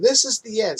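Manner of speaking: lightly hammed-up panic; mock freaking out. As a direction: play at doomsday raving, half-strength. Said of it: "he's freaking out".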